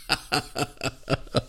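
quiet, breathy chuckle; real laugh. Real, not acted. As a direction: laugh softly at your own story. Laughs at his own story.

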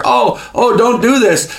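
mock pleading Haman. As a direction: beg for mercy, half in jest.

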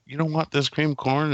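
mock mad mom. Mom offering cream corn to refusing guests, mock mad. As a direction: imitate a mother taking offense. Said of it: "getting mad at everybody for refusing it".

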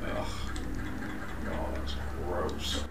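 disgusted. Real, not acted. Disgusted at game creature.

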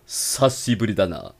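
low, slow gruff anime tough guy; anime brute. Acted. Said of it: "Iron Man". (voz de brutamontes de anime, grave)

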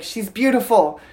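put-on high-pitched, playfully gushing over a baby; retold gushing reply. Dad on his newborn redhead, high-pitched retold reply. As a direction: say it high, as a mock warning.

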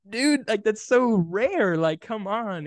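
high, drawn-out incredulous plea; retold exasperated protest. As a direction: re-enact protesting to an unimpressed wife, stretching the words. Retold protest at wife's indifference.

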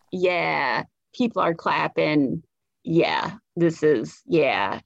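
low, self-satisfied yeah; understated satisfaction. Retold or imitated. Imitates self pleased at applause.

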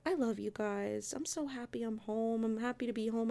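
soft, quiet mock relief; retold sudden affection. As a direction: drop softly into imitated loving happiness. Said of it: "it went right back to".

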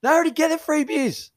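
high-pitched, incredulous pleading; exasperated mock scolding. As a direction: tell off a mate in a high voice. Mock scolding of absent teammate.

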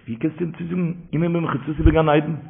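soft, understated question; quiet question. Retold or imitated. Preacher quoting a question on the story, hushed.

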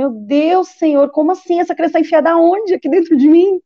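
high, rising shocked cry; shocked disbelief. Retold or imitated. Told she is five months pregnant, shocked disbelief. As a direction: disbelief at news of a hidden baby.

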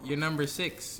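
six said with rising emphasis; stress on six. Real, not acted. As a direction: lean hard on six. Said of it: "the way you said six like that".

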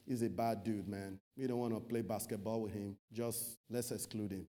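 low, hushed gossip voice, lightly voiced; gossiping church member. Preacher mimics a churchgoer judging a brother's past, hushed gossip. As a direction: confide the dirt in a low murmur.

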